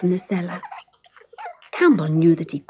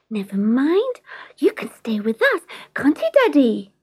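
put-on a small girl begging her daddy; little girl voice; 4 semitones higher than usual. Girl comforts cat, asks father.

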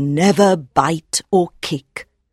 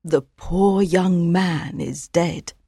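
higher, slow, grieving mother horse; mother mare, softly sad; 6 semitones higher, 3 dB quieter than usual. Acted. Mother mare telling her colt of a death, softly sad. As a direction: mourn the young man quietly. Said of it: "says Mother sadly".

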